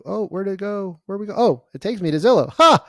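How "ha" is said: a sudden, high, loud "ha"; surprised laugh. Real, not acted. Coach is startled when the review link opens, laughing. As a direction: burst out in amused surprise.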